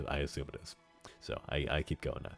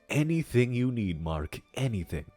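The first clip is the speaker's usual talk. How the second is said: hammy stage actor; 2 semitones higher than usual. Acted. Softer devoted promise in character.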